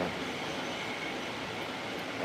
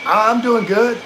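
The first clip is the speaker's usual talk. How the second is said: loud, high shout over the wind; 10 semitones higher, 5 dB louder, slower than usual. Real, not acted. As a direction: raise your voice above a gusty wind. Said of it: "just shouting over the wind".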